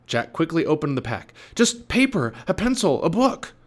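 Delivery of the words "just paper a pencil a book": high, loud anxious voice; nervous listing. Acted. Jack showing the captain his pack, nervous listing. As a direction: list it anxiously to appease him.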